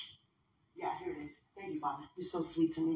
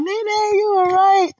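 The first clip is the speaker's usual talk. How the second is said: concerned; 13 semitones higher, 7 dB louder, much slower than usual. Retold or imitated. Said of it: "They was like".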